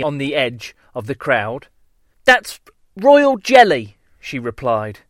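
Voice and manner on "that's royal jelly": slow proud bee voice. Acted. Worker bee answers.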